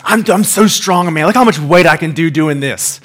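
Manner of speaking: bragging buddy. Retold or imitated. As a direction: show off like a teen lifter. Buddy bragging while bouncing.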